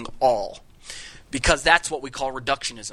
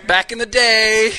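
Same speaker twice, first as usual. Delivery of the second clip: laughing; 7 semitones higher, 9 dB louder, slower than usual. Real, not acted. Laughing at his own joke.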